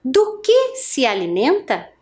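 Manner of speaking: "Do que se alimenta?" as a model question; question intonation. Shown as a demonstration. Teacher reads for class to repeat, questioning tune. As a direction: say "Do que se alimenta?" for pupils to echo. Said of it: "Eu vou ler uma vez e você repete aí".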